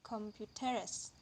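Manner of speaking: computeres said slowly, main stress on the final -ESE; stress on suffix. Shown as a demonstration. Lecturer giving the last example, slow final stress on computeres. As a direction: draw out computeres towards a stressed last syllable. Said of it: "all take primary stress".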